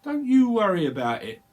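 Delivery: a cheeky London market trader; a hint of a Cockney wide boy. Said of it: "slightly co-, Cockney person".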